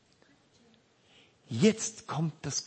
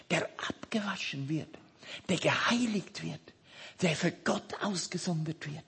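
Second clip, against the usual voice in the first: whisper; 3 semitones higher, 3 dB quieter than usual. Acted. Whispered aside in sermon.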